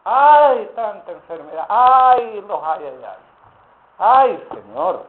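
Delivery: cada "ay" chillado alto y fuerte, el resto lastimero; hermano quejumbroso. Retold or imitated. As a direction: parodia a un hermano que se queja de todo. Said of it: "Me parece escuchar a varios hermanos". (imita a los hermanos quejosos con ayes exagerados)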